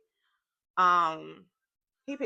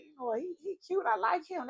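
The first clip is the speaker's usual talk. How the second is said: put-on excited girl talk; 7 semitones higher, 3 dB quieter than usual.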